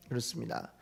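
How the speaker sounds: normal talking voice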